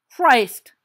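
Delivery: loud, high startled curse; startled exclamation. Acted. Sirius jolts at the thump with a loud curse. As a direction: jump at the noise.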